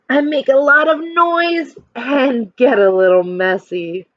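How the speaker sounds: put-on reading a picture book to children; lively storytime voice for a class; expressive read-aloud for kids; story narration. A narrator's reading.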